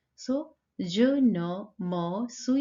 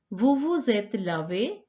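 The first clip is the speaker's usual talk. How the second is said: "Vous vous êtes lavé" asked as a question, rising on "lavé"; question intonation. Shown as a demonstration. Teacher shows students a question without reordering, question intonation on "Vous vous êtes lavé". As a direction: turn "Vous vous êtes lavé" into a question by tune alone, lifting "lavé". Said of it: "We use intonation also to ask question".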